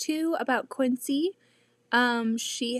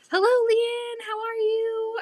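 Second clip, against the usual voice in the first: cheerful greeting; 12 semitones higher, 6 dB louder than usual. Real, not acted. Greeting a viewer.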